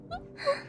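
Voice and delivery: short high giggle; embarrassed giggle. Acted. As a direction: laugh it off shyly. Embarrassed admission, then laughs.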